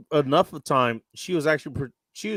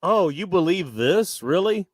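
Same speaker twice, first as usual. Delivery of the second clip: incredulous quote; 6 semitones higher than usual. Retold or imitated. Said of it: "and it was like".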